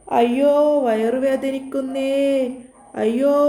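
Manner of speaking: milk the fake stomach ache; faked pain moan. Nilu fakes a stomach ache to fool her captors, slow hammed-up moaning. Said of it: "വേദന അഭിനയിച്ചു നിൽക്കുന്നത്".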